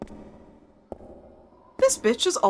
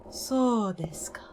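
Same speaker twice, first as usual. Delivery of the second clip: mock anime whisper; 5 dB quieter than usual. Mock Japanese aside while gaming.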